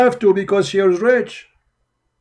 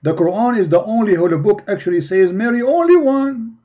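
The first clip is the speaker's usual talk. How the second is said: higher-pitched mock quoting of an article; mocking quote; 4 semitones higher than usual. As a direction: quote their claim in a raised, mocking pitch. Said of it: "Look what they say to you".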